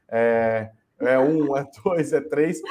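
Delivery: light playful race caller count; horse race announcer. Acted. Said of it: "fazer igual narrador de corrida de cavalo".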